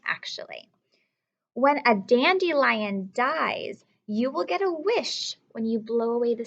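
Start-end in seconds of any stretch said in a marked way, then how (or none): 0.1-0.7 whisper. Acted. Whispered aside.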